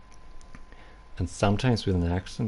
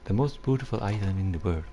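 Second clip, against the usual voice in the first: Welsh accent attempt; faster than usual. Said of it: "I can't do a Welsh accent".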